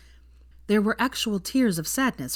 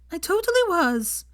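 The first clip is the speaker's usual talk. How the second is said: amused; 12 semitones higher, 3 dB louder than usual. A narrator's reading. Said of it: "she said amusedly".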